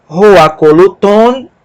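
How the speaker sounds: Roacoluton drawn out, syllable by syllable; slow syllables. Shown as a demonstration. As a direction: spell out Roacoluton for the class.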